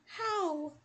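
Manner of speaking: rising panic; panicked. Acted. Realizes attacker found her.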